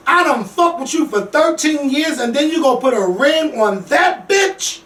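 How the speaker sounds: high-pitched, mildly indignant retelling; retold outburst. Host quoting Tara going off on Peter, retold outburst. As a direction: act out her fed-up tirade without shouting. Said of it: "She just went off".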